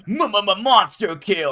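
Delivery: slow, stuttered mock announcer call; Quake announcer. Retelling a server plugin, lightly imitating the announcer. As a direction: stretch it out like an arena announcer. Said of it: "it would go".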